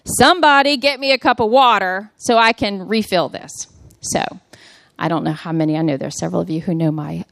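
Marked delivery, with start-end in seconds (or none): 0.0-3.5 slightly raised, mock holler for help; mild imitated holler; retold holler. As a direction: re-enact calling out to the household. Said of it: "And so I holler from the floor".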